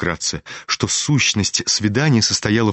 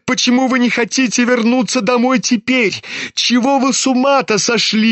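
high-pitched agitated outburst; boiling over; 13 semitones higher than usual. A narrator's reading. Kolya demands his father explain himself, boiling over. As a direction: fire off indignant questions, pitch raised. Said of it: "Закипел вдруг Коля".

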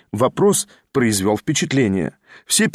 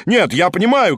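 higher, mildly shouted objection; exclaimed shout; 6 semitones higher, 3 dB louder than usual. A narrator's reading. Third man contradicts the two confused officers, crying out. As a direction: cut in with an eager cry. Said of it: "крикнул третий".

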